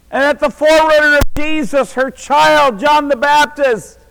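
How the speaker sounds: high, loud, fervent preacher's cry; roaring pulpit voice, high and loud; full-force preaching. Acted. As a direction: preach it to the rafters with everything you've got.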